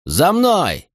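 high rallying shout; shouted over shoulder. A narrator's reading. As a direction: yell back as you run. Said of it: "крикнул Катон через плечо".

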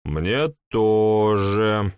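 very slow tipsy reply; town drunk. Acted. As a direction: drawl it out drunkenly. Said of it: "полупьяный голос".

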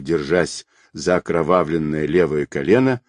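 plain reading voice

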